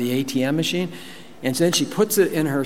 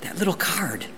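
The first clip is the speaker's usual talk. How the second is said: put-on higher childish voice; kid voice; 6 semitones higher, 5 dB quieter than usual. Little Bob pleading with mom to use the card, childlike. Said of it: "And I said".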